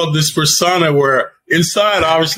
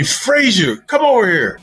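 barking gym coach; 5 semitones higher than usual. Retold or imitated. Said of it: "my coach yelled at me".

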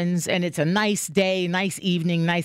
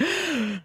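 demo gasp; 4 semitones higher, 5 dB quieter than usual. Shown as a demonstration. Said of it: "I'll be like".

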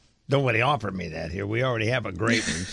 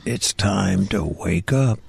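DJ wake-up call; 5 semitones lower, slower than usual. Retold or imitated. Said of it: "I said".

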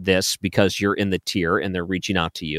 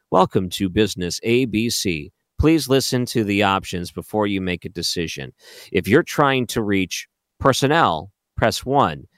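automated phone message voice. Retold or imitated. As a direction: read it like a phone menu recording. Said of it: "that's what he sounds like".

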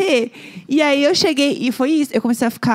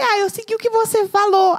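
mock crying; 8 semitones higher than usual. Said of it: "retold crying reply to Neco".

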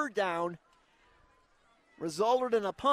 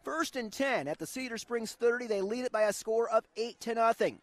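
play-by-play; 2 semitones lower than usual. Acted. Radio play-by-play.

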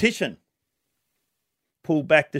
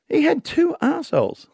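put-on Irish accent; 11 semitones higher than usual. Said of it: "trying to do the Irish accent only when someone speaks".

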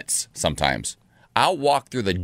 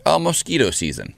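thin whiny buzz on mosquito; mosquito whine; 4 semitones higher than usual. Acted. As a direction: say mosquito like a buzzing insect. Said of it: "Why did I say it like a mosquito?".

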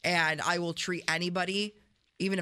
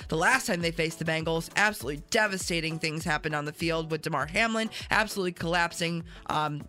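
news read. Acted. Reading the news segment.

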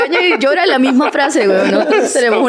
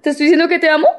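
higher, questioning Bogotá lilt; sing-song Rolo accent; 5 semitones higher, faster than usual. Shown as a demonstration. Mock Rolo lover answering, sing-song questioning Bogotá accent. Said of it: "Como cantado al final".

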